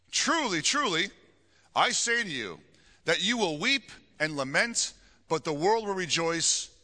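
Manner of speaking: deliberate Bible reading with pauses between phrases; scripture reading. Acted. Pastor reading Jesus' promise to the congregation, deliberate scripture reading. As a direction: proclaim the verse, weighting the key words.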